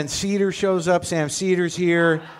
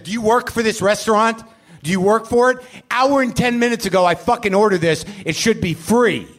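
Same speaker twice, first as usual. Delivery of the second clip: raised, pushy complaint at the delivery guy; retold angry rant; 5 semitones higher, 3 dB louder than usual. Ranting at the bike delivery guy about late food, mock angry. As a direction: demand it back like an entitled customer. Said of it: "I said that to a guy on a bike".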